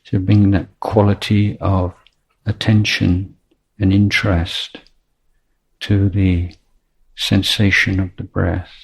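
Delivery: measured, unhurried meditation teacher with long pauses; spacious meditation instruction, letting each phrase settle; guided meditation. Real, not acted. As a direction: guide the breath gently, phrase by phrase.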